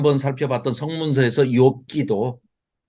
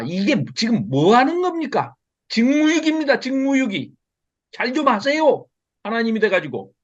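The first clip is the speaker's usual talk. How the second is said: higher-pitched mock rebuke, wagging a finger at God; indignant scolding; 5 semitones higher than usual. Prophet Habakkuk rebuking God for neglecting duty, indignant scolding. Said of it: "딱 이 분위기입니다".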